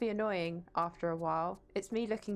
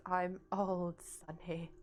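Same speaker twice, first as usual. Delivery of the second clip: put-on elderly voice; much slower than usual. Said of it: "Tomb Raider three in an elderly voice".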